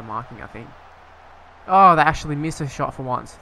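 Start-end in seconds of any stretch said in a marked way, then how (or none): 1.7-3.3 loud relieved outburst. Real, not acted. Relief at opponent's miss.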